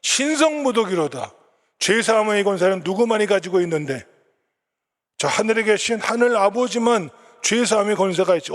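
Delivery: high, loud mock outrage of the scribes; indignant scribes. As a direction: play the outraged scribes crying blasphemy. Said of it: "그들이 뭐라고 생각합니까?".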